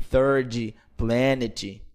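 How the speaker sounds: "third" as thirdi, "planet" as planeti; mock Brazilian English. Shown as a demonstration. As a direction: add an i after the final consonant. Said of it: "pra você não pronunciar o I no fim".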